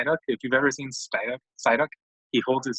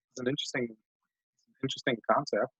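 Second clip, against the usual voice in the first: talking through a yawn; 4 dB quieter than usual. Real, not acted. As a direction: yawn while saying it. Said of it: "Oh, I'm really yawning".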